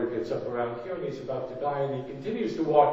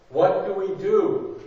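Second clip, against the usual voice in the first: higher, louder desperate cry; panicked plea; 5 semitones higher, 5 dB louder than usual. Acted. Scared people begging Moses, rising panic. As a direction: let the panic break through. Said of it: "we are so overcome by fear".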